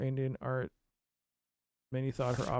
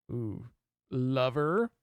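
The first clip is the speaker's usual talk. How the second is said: ordinary talk, nothing marked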